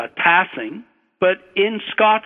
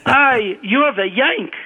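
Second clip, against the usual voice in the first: raised, punchy Scottish examiner's voice; Scottish accent; 4 semitones higher than usual. Retold or imitated. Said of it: "try to do my Scottish accent".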